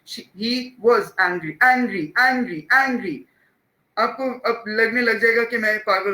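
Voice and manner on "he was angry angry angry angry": "angry" drawn out slowly, first syllable stressed, "was" light. Shown as a demonstration. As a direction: slip over "was", stretch the "an" of "angry". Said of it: "unstress होते हैं".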